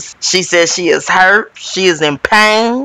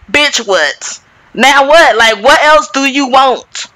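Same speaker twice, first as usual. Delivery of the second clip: fed-up retort; 5 semitones higher than usual. Retold or imitated. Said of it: "Kathy stopped crying and was like".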